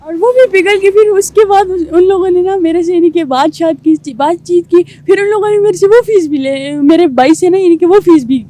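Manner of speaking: a young man's put-on girlish voice, held through the story; girl's voice. Young man telling the host a story in his put-on girl's voice. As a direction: tell the whole story as a girl would. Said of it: "آپ لڑکی کی ہی آواز میں بتائیں".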